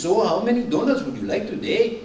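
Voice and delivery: lightly imitated Southern accent. Donut counter lady asking a customer, southern accent. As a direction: imitate a donut shop server with a Southern lilt. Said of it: "That's a lovely southern accent".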